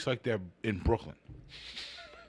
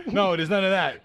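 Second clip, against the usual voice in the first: put-on Irish accent; 6 semitones higher, 6 dB louder than usual. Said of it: "got me with the boyo".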